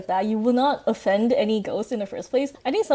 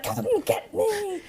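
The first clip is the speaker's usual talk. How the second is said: laughing mock scream; 9 semitones higher, 3 dB quieter, much slower than usual. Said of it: "he would scream at the ghost".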